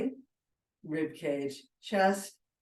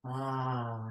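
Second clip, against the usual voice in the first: sighing exhale; 3 semitones lower than usual. Shown as a demonstration. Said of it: "exhaling with a sigh".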